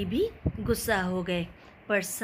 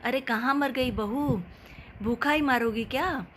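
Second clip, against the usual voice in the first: mild mock yell; 3 semitones higher than usual. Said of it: "ज़ोर से चिल्लाई".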